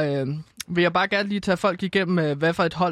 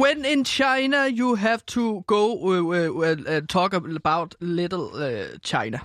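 playful fake Chinese accent; mock Chinese accent; slower than usual. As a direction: ham up a Chinese accent in English. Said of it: "Du, du brugte en kinesisk accent der".

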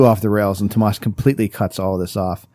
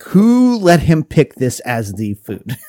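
incredulous; 6 semitones higher, 6 dB louder, much slower than usual. Retold or imitated. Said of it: "I was like".

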